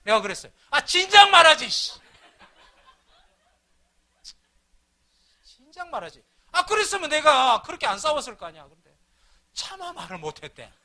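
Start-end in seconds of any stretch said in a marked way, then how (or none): 0.7-8.7 loud, higher "you should've said so"; exasperated outcry. Retold or imitated. Husband scolding his wife for not telling him sooner, exasperated outcry. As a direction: throw up your hands in mock frustration.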